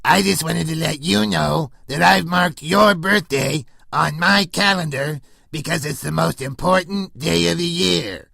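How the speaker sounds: raspy clown showman voice; Krusty the Clown voice. Acted. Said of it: "This is Krusty the Clown".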